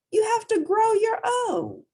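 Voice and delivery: loud, high rhino shout. Acted. The rhino telling Portly to grow horns, loud voice. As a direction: bellow it as the rhino.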